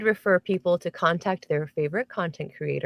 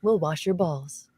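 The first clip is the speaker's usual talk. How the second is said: sexy voice; 3 dB quieter than usual. Retold or imitated. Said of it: "in my sexy voice like this".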